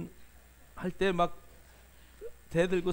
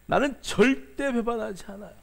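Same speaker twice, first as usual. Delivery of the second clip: a boastful vow leaning hard on 절대; Peter's repeated boast; 4 semitones higher, 3 dB louder than usual. Retold or imitated. Peter repeating his promise to Jesus, a boast hammering 절대. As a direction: insist on 절대 as if nobody could doubt it. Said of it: "큰 소리 치고".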